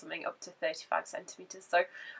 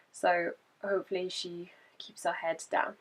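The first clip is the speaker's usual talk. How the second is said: soft laugh under the words; laughing whisper; 6 dB quieter than usual. Real, not acted. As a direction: whisper it through a giggle. Joking aside about the baby.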